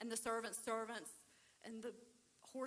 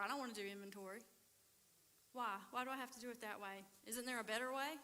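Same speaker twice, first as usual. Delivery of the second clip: whiny bargaining; faster than usual. Retold or imitated. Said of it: "So then he's like".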